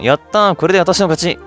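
acted winner's cheer. Player voices a game character claiming her win, lightly acted cheer. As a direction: play a girl pleased to have won.

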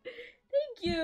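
high, loud squealing with joy; shrieking jackpot winner. Real, not acted. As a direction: shriek your thanks, laughing and near tears. Raid arrives, shrieking with joy.

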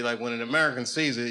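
ordinary talk, nothing marked

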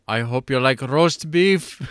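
slow, smug, hammed-up villain line; imitating the villain. Quoting the remake's villain to his cohost, slow and smug. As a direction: savour each word like a grinning movie villain. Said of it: "there is the line where he goes".

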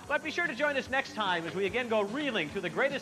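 upbeat show sign-off; game show host. Acted.

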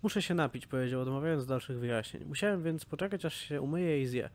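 storyteller reading Aspen's grim return; story narration. Acted. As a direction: read the quest text aloud with feeling. Reads campaign story aloud.

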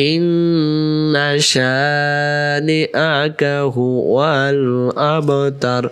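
slow, drawn-out chanted recitation; slow Quran recitation. Shown as a demonstration. Teacher reciting slowly for students. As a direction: intone each syllable slowly and melodically. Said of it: "আবার".

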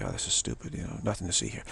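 low, dismissive scoff; a hint of scoffing dismissal. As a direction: brush it off, bored and low. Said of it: "they just say".

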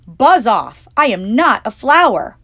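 loud, cross telling-off; scolding. Acted. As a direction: shoo the bee away crossly. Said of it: "I scolded the bee".

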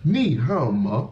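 你好吗 with big swooping tones; imitated Chinese tones. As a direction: swoop through 你好吗 like a song. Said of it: "copying him".

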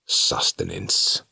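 a slow, plain demon word; demon's simple reply. A narrator's reading. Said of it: "Despair said simply".

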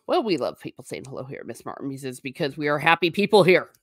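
brisk, stern welcome; quick teacher-like firmness under friendly words; mean, stern. Real, not acted. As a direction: welcome them as if it were an order. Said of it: "I just said that in a very mean sort of a way".

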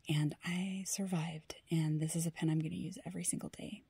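soft, moved whisper; touched, quietly emotional. Real, not acted. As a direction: hold back tears in a whisper. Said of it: "I am getting a little bit emotional".

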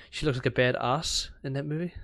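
BADASS said the Kiwi way, as "bad-ahss"; Kiwi accent. Shown as a demonstration. Podcaster correcting herself into native tongue, Kiwi accent. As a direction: native New Zealand pronunciation with a long AH in badass. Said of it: "my native tongue".

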